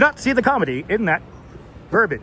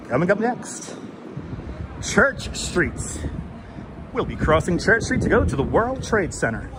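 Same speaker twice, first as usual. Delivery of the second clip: lightly put-on radio announcer. Shown as a demonstration. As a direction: announce it like an engaging radio host. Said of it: "I could always do my radio voice".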